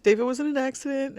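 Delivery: hushed whisper, barely any voice. Retold or imitated. Telling her sister-in-law the terrible news, whispered. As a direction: breathe the bad news out in a whisper.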